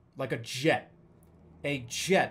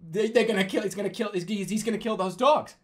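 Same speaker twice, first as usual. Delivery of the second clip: higher, stammering mock panic; acted alarm; 6 semitones higher, 4 dB louder than usual. Dreamer seeing tiger above neighbor's puppies, acted stammering alarm. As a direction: stumble over it in rising alarm.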